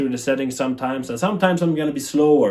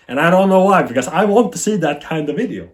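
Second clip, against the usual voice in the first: emphatic; 5 semitones higher, 6 dB louder than usual. Real, not acted. Rising frustration at missing videos.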